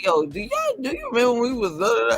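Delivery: excited reminiscing. Retold or imitated. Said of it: "I be like".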